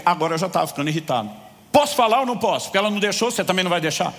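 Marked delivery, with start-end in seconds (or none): 1.7-4.1 raised voice. Retold or imitated. Customer to manager, irritated raised voice. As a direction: finally push back hard. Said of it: "eu ergui a voz com ele".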